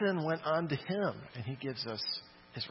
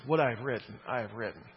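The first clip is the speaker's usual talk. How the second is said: dismissive; 5 semitones lower, faster than usual. Retold or imitated. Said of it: "basically flipping them the bird".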